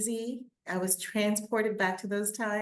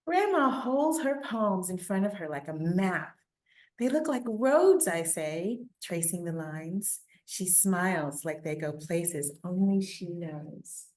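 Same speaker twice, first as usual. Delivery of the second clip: put-on steady read-aloud for children; story reading. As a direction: tell the story to listening kids. Reads picture book aloud.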